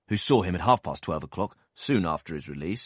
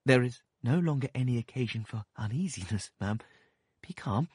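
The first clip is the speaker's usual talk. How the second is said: gentle, soothing doctor; softest accents; 5 semitones higher than usual. A narrator's reading. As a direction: soothe her, ever so gently. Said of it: "in his softest accents".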